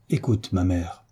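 calm her down gently; gentle gravity. A narrator's reading. Son gently addressing his upset mother, soft and tender. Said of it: "avec une gravité douce et tendre".

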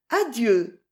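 sweet-voiced, lightly murmured goodbye; gentle murmur. A narrator's reading. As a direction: say farewell tenderly, understated. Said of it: "murmura une douce voix". (adieu doucement murmuré)

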